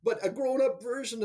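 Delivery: high, laughing, slowed words; amused, laughing at the memory. Real, not acted. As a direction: laugh through it as you remember. Laughing while recalling the meeting.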